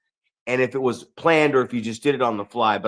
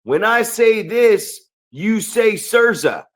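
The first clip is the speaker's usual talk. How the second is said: hyping a crowd; 7 semitones higher, slower than usual. Retold or imitated. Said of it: "he gets the audience and he goes".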